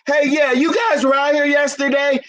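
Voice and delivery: phone a business with a small calm complaint; mild complaining caller. Acted. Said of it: "the phone call goes like this".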